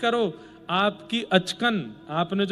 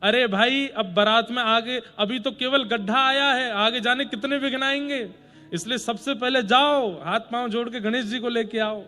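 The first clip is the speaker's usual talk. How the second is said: insistent, raised-pitch command; urgent exhortation; 3 semitones higher than usual. Acted. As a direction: press them to hurry off and fix it. Groom urges them to fetch Ganesh.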